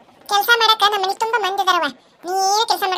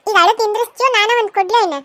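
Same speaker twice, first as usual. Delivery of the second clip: scolding; 2 semitones higher, 5 dB louder than usual. Acted. Elder scolds the crying bride.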